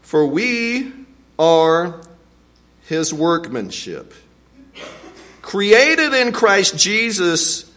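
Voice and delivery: slow, weighted scripture reading. Acted. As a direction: let each phrase land slowly. Scripture read slowly.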